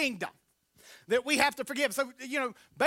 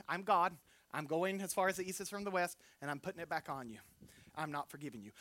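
quiet stern God; 5 semitones lower, 8 dB quieter than usual. Acted. God quietly reproaching Linda.

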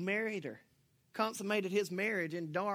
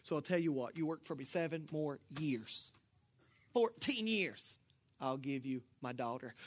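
sheepish confession; 6 semitones lower, 7 dB quieter than usual. Retold or imitated. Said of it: "And he said".

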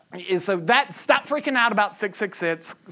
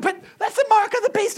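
very high, squeaky protest; mock alarm; 12 semitones higher than usual. Churchgoer insisting to pastor about wrist implants, mock alarm. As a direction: imitate a worried churchgoer in falsetto. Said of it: "why are you worried anyway?".

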